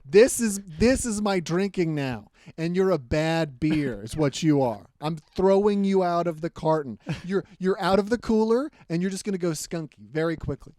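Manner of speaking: mock scolding.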